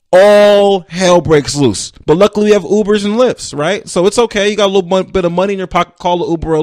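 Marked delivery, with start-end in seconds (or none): 0.1-1.9 mock dramatic. Dramatic slow car-failure line.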